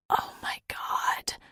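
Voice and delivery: slow, breathy whisper into fur. A narrator's reading. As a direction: whisper it, slowly, melting. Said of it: "I whispered into the fur".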